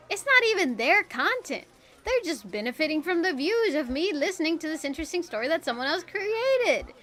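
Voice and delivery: annoyed rant. Retold or imitated. Quoting own annoyed thought.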